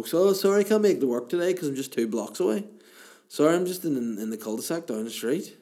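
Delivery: high, loud apologetic phone excuse; imitating a bad liar phoning in; mock sick-call excuse.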